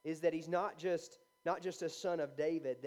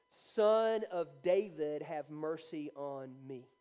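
slow retold cry, loud then falling away; crying out insistently; 3 dB louder, slower than usual. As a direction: draw out the plea, starting loud. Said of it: "he cried out all the more".

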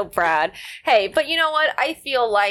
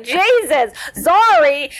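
startled apology; 4 semitones higher, 6 dB louder, much slower than usual. Retold or imitated. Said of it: "I'm like".

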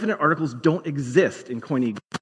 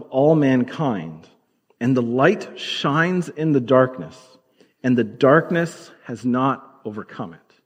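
slow, measured reading of scripture; slower than usual. Acted. Preacher reading John's gospel slowly to the congregation. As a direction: read the verses slowly and deliberately. Reads John's prologue aloud.

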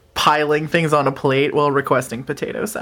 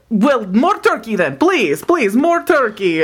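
hungry creature pleading with the server; begging Frosty; 3 semitones higher than usual. Acted. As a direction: beg sweetly for turkey.

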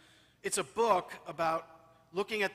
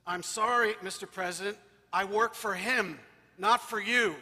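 firm, louder refusal; forceful; 5 dB louder than usual. Retold or imitated. Housekeeper to the President on the phone, refusing firmly and loudly. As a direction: stand your ground, politely but hard. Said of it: "very forcefully into the phone".

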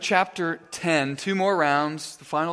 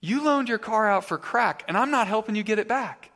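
retold officer's firm refusal, slightly raised pitch; calm but stern; 5 semitones higher than usual. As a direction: lightly play a stern, composed officer. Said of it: "calm, but very stern".

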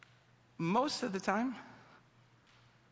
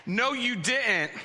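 higher, slowed "no, you didn't" with a laugh; mock indignation; 5 semitones higher, slower than usual. Young adult finds roommate ate his ice cream, mock outrage. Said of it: "you will think to yourself".

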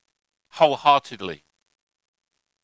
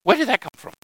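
surprised; 8 semitones higher than usual. Retold or imitated. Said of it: "And you think".

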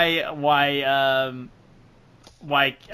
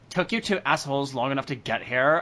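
bored monotone; 4 dB louder than usual. Acted. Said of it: "sound perpetually bored".

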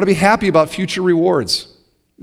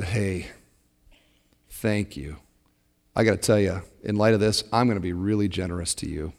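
soft poor man's thanks; 8 semitones lower, 10 dB quieter than usual. Retold or imitated.

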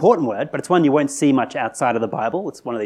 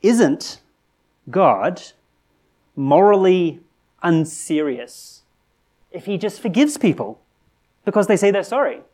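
indignant objection; 5 semitones higher, slower than usual. Retold or imitated. Objector challenging the preacher, indignant and raised. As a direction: demand an answer, voice rising high.

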